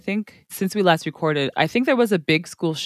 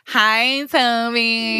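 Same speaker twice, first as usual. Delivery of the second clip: tag teasing callout; 5 semitones higher, much slower than usual. Pretend. Greets listening husband into the mic.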